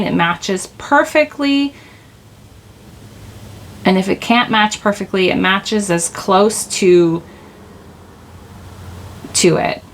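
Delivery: slow, stretched ends of phrases; oddly drawn-out delivery. Real, not acted. Reader explaining divine justice, oddly drawn out. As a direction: linger on the last words of each phrase. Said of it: "I don't know why I'm saying it like that".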